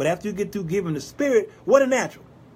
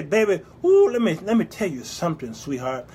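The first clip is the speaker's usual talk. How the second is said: softening sweet-talk to husband; 3 semitones lower than usual. Shown as a demonstration. Preacher coaching wives, tender pillow-talk voice. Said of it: "Just say".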